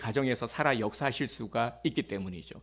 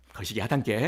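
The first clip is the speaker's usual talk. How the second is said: Jeolla dialect; 2 semitones lower than usual. Retold or imitated. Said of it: "전라도는".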